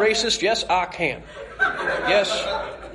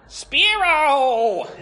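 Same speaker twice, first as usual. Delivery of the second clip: a loud, high call of the name across the field; shouted call; 10 semitones higher, 5 dB louder than usual. Acted. Ash calling out loud to Spiro in panic. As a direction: yell for him to come back.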